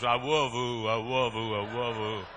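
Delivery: fading, loud sing-song of love; old church member muttering love while climbing, fading; lightly voiced slow walker. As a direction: repeat it as if huffing up the stairs. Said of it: "I always heard going up".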